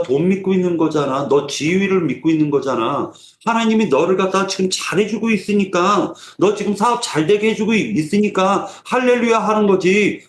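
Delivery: mildly taunting, needling accusation; mocking. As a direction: jeer at a believer's faith, lightly acted. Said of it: "조롱하-, 하는 말인 거예요". (살짝 조롱하듯 따지는 말투)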